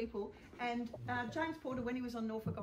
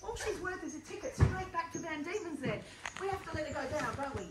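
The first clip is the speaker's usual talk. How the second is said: loud, projected theatrical captain, rallying the crew; boisterous captain cheering on his crew; stage convict captain; 4 semitones higher, 5 dB louder, slower than usual. Acted. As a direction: play it big for the back row, a jolly ship's captain. Captain arguing in scene.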